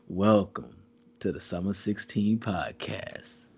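deep, slow, hushed intro voice; low unhurried voice. Shown as a demonstration. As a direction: drag it out low and easy like a late-night host. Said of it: "slow and shit".

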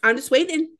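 high, sing-song fake innocence, rising to a squeak on the last line; mock innocent. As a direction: play it like a caught kid pretending nothing is up. Acting innocent while caught out.

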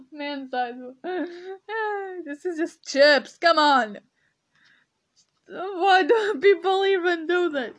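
mocking a label through laughter; giggling disbelief; laughing. Real, not acted. Vlogger mocking man-sized chips, laughing. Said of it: "I'm laughing so much".

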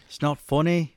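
lightly mimicked British accent; a touch of British lilt; little British girl. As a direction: imitate a British little girl's protest. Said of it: "She sounds like".

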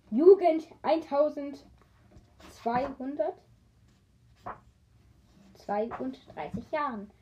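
slow exasperated reckoning; slow disbelief. Real, not acted. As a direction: stretch it out, baffled. Exasperated at own number.

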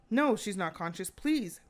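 agitated retelling, pitch climbing on the last word; exasperated, pleading reply; bothered. Retold or imitated. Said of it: "And he sounds bothered".

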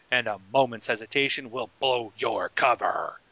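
dramatic trailer read; a touch of movie voiceover narrator. Acted. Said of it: "I should be doing movie voiceovers".

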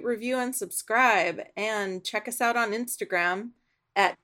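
scripted show sign-off read; lightly announced podcast sign-off; podcast outro. Acted. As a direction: read out the closing plug to listeners. Host reads the podcast sign-off.

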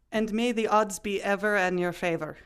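mild, measured attempt at a Scottish accent. Podcaster attempts a film quote for the guests, tentative Scottish accent. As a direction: try a Scottish accent, lightly and carefully. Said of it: "how is your Scottish accent getting on?".

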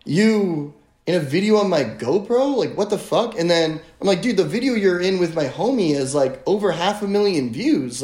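high, exasperated disbelief; incredulous retort. Retold or imitated. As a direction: pitch it up in mock outrage. Retelling heated argument with guide.

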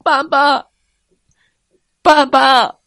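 put-on high, loud child's call; baby dinosaur shouting. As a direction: call dad joyfully like a small child. Baby dinosaurs calling dad.

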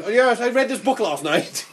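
lightly acted bookish dog; well-read dog. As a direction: play a dog chatting about its reading. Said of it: "a dog that's going".

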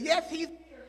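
high-pitched imitation of a little teacher; put-on high voice; Miss Maddox. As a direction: answer the intercom as a small teacher. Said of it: "Her name was Miss Maddox".

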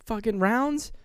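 high-pitched, disbelieving echo; retold incredulity. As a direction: throw it back as an outraged question. Retelling patient's disbelief at excuse.

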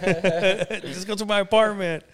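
a hammed-up young man's brag; mock-boastful invite.

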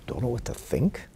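questioning echo with a rising end; incredulous echo. Retold or imitated. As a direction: throw it back as a question. Rebbe echoes student as question.

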